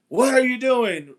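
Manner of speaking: retold loud call. Man who saw somebody out back, retold loud challenge. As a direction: imitate someone calling out, without full volume. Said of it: "real loud".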